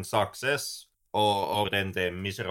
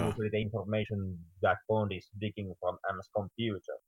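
muffled, like through a door; 2 semitones lower, 3 dB quieter than usual. Real, not acted. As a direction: voice muffled by a bad mic. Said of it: "Henrik, you're really muffled right now".

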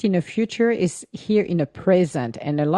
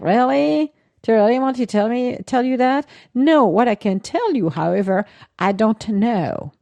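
mock incredulous reply; 5 semitones higher, 3 dB louder than usual. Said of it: "And you're like".

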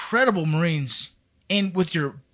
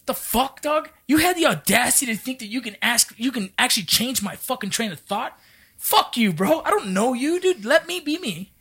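higher-pitched, emphatic mock telling-off; indignant retort; 5 semitones higher than usual. Veteran answering people who message him advice, indignant retort. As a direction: push back hard, acting out an indignant comeback.

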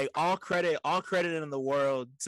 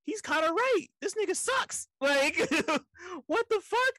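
amused agreement; 13 semitones higher than usual. Retold or imitated. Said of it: "just being like".

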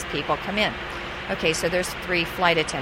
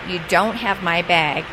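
stern passenger; slower than usual. Retold or imitated. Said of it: "he looks at me very sternly".

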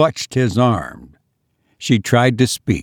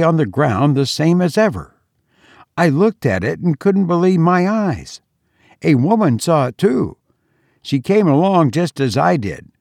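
put-on slightly higher, uneasy young man; lightly voiced son; 4 semitones higher than usual. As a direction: tell it with forced calm. Son George voiced telling.

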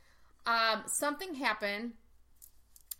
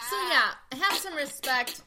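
laughing; 4 semitones higher, 6 dB louder than usual. Real, not acted. Laughing scolding in banter.

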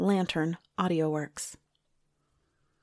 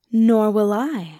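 loud; 3 semitones higher, 7 dB louder, slower than usual. Acted. Suni, loud and slow.

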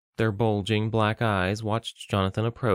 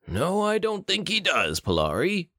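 chuckling; 9 semitones higher than usual. Acted. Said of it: "Bruto chuckled".

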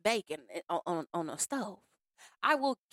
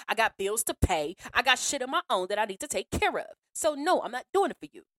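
louder, blunt no with bills to pay; blunt refusal; 4 dB louder than usual. Shown as a demonstration. Refusing the caller bluntly, louder and firm. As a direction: say no straight out, firm and loud. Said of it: "you don't say it like that".

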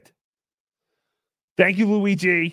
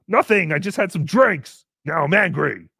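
mock angry drunk; 3 dB louder than usual. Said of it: "an angry drunk".

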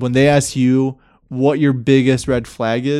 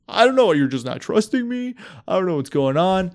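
defensive whine; 5 semitones higher than usual. Retold or imitated. He dodges, voiced whiny.

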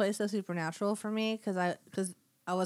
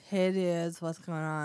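stoner voice; 2 semitones lower, slower than usual. Pretend. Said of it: "Steve is kinda like a stoner".

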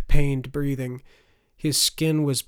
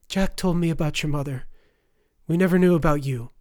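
raised, pleading confession; distressed wife; 4 semitones higher, 6 dB louder, faster than usual. A narrator's reading. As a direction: confess it with voice pitched up. Wife confessing to dying man's son.

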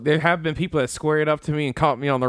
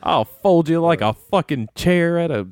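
laughing; 2 semitones higher, slower than usual. Real, not acted. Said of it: "I lost it".

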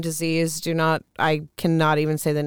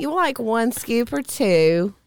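slow, higher Southern drawl; Southern twang; 5 semitones higher, slower than usual. Acted. Woman playing hostess to her friend, in Southern twang. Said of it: "with the twang in your voice".

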